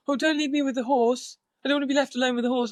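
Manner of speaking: a touch of imitated panic; mock terrified. Partner begging not to be left with horse, mock terrified. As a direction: plead nervously, quoting him. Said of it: "acts so terrified of Brax".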